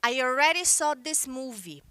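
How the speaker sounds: "I already saw this movie" said slowly, word by word; slow model sentence. Shown as a demonstration. Teacher models the American sentence for students, slow and clear. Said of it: "No inglês americano, a pessoa vai chegar e vai dizer".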